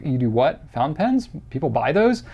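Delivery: mildly mock-puzzled questions, pitch lifting midway; incredulous reaction. Acquaintance hearing about his pen job, mock incredulous. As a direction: imitate a mildly baffled acquaintance. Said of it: "That's usually the reaction I get".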